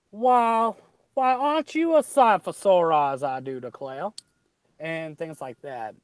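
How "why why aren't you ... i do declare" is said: put-on higher, louder Creole accent, I do declare dropping back; a genteel Creole accent greeting an old friend. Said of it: "they'll sit there and say".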